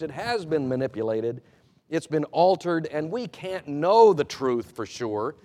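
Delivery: lightly performed skeptic's claim; voicing the skeptic's argument. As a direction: lay out the critics' case with a hint of insistence. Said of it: "the argument goes like this".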